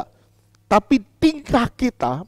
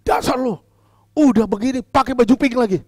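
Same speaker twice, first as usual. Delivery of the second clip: a hint of a scornful scolding; mock angry rebuke; 4 semitones higher than usual. Shown as a demonstration. Pastor showing angry scolding of Rita over pink clothes, mildly mock-harsh. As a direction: put her down, lightly mock-annoyed. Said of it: "Tapi kalau saya marah, gini".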